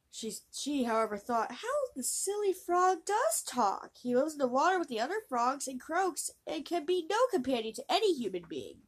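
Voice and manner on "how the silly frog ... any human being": scornful princess. Acted. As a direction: scoff at the silly frog.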